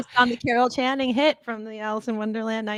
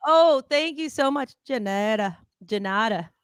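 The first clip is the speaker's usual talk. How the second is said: mock impression of a pop singer. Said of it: "it's like".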